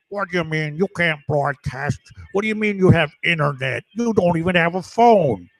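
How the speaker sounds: put-on incredulous heckler voice; lightly mock a baffled heckler's questions; imitated nitwit. Watcher doubts man can broadcast, imitated nitwit. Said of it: "And the nitwit's like".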